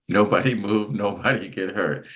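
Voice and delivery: "Nobody" with a laugh breaking into "move"; laughing echo of the catchphrase; laughing repeat. Retold or imitated. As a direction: chuckle through "nobody move". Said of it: "put that on Larnez's shirt".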